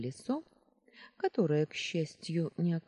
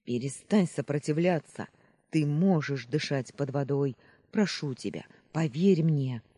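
louder, urgent pleading; angry pleading; 5 dB louder than usual. Acted. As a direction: demand then beg. Ametrin pleads angrily with Stefan.

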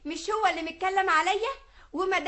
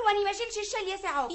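quick rustic mock of his refusal; teasing imitation, fast; mock quote of him; 2 semitones higher, faster than usual. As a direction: rattle off his words like a stubborn husband. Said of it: "لو كنت هتزعل قول".

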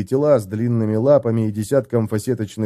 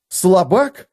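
higher, outraged echo of the insult; indignant exclamation; 8 semitones higher, 4 dB louder than usual. A narrator's reading. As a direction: repeat «Слабак» high and offended. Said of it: "воскликнул он". (Феликс возмущённо переспрашивает «Слабак?»)

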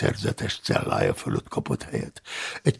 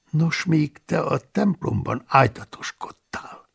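lightly; 5 semitones higher than usual. Acted. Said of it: "mondtam könnyedén".

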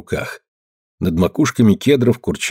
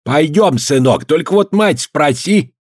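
put-on higher, slow, fond old voice; kindly old man; 8 semitones higher, slower than usual. A narrator's reading. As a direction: answer the boy gently. Old man agrees with grandson.

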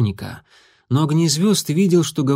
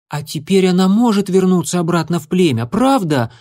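pleading; 6 semitones higher, 3 dB louder than usual. A narrator's reading. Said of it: "умоляюще спросил Ежевичка".

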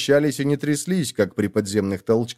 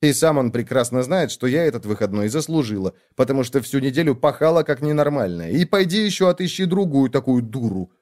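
a hint of a fussy younger sister; sister's voice; 2 semitones higher than usual. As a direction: play the busy little sister, light and quick. Sister's chatter, voiced figure.

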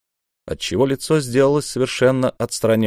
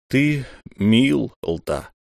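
sad; much slower than usual. Acted. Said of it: "сказал государь печально".

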